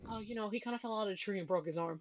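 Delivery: quick, soft, offhand report; imitated nonchalance. Husband reporting son's broken arm, nonchalant. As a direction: toss it off as if it's nothing. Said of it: "He says it so nonchalantly".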